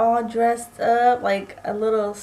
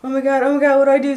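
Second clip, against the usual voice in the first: freaked out; 3 semitones higher, 5 dB louder, much faster than usual. Retold or imitated. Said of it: "I freaked out and was like".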